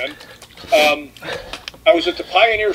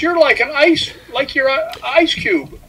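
put-on much higher, slower, drawn-out girl voice; imitating the girl; 10 semitones higher than usual. Girl feeling Rick's icy forehead, imitated high and slow. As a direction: stretch it up high as the amazed girl. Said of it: "She says".

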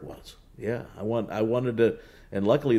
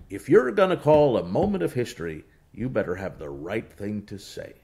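put-on Tom Hammond's Kentucky accent. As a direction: advise gravely in a Kentucky accent. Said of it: "Kentucky accent, he says".

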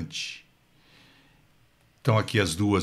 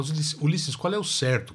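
mock student question; 5 semitones higher than usual. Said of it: "quando me perguntam".

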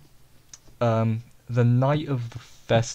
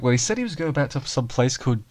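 puzzled character quote; 3 semitones higher than usual. Retold or imitated. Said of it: "Yuji will be like".

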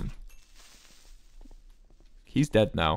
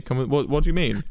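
ordinary delivery

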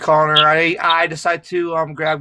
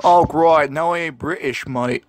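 playful put-on British accent; mock British accent; 2 semitones lower than usual. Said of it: "You're not British".

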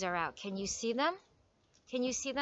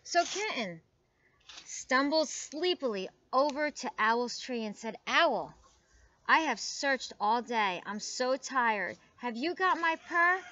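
animated storybook reading with lively pitch swings; story read to children; slower than usual. A narrator's reading. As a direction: read it aloud for little listeners. Reads picture book aloud to children.

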